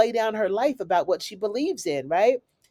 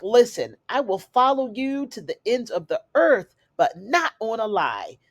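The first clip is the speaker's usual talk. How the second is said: mock heated, higher pitched vow; imitating a fired-up confrontation; 4 semitones higher than usual. Theodora confronts the captain about his lie, lightly heated. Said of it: "she gets heated".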